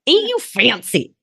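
high, hammed-up fifties mid-Atlantic accent. Teasing her friend about her own URL in a mid-Atlantic accent. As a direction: play a fancy fifties mid-Atlantic starlet. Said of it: "do you like my mid-Atlantic accent from the fifties".

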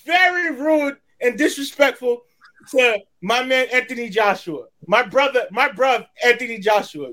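light mock London accent, a bit rushed; lightly put-on British accent defending AJ. Hyping up his man AJ in a mock UK accent. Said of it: "to sound with my U K accent".

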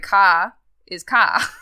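"ka" with no R, slow and loud; R dropped. Shown as a demonstration. Explaining Australian endings, R dropped on "ka". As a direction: open vowel ending on "ka". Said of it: "Australians don't say E R at the end".

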